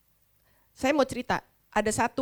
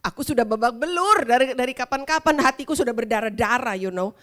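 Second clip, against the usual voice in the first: mock hurt; 4 dB louder than usual. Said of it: "kalau nggak".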